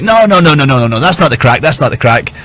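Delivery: mock protest in an Irish accent; quick Irish-accented objection, high on the first no's. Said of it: "In his classic Irish accent".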